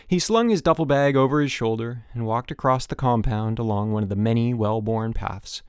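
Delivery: plain reading voice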